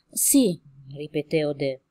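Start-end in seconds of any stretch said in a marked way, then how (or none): 0.1-0.6 trembling voice. Acted. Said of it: "Gli tremava la voce".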